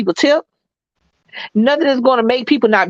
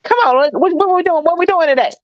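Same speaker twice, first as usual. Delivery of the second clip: playful Southern server greeting, higher; Southern coming out; 6 semitones higher than usual. Shown as a demonstration. Waitress greeting regulars with her Southern lilt. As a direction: let the Southern charm slip into the welcome. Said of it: "My, my Southern comes out".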